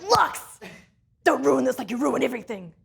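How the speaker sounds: lightly barked drill sergeant orders; a hint of a stern drill sergeant. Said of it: "like a drill sergeant".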